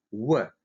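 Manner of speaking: "в" said like an English W; W sound. Shown as a demonstration. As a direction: round "в" into a w glide. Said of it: "как в английской W". («в» как английское W)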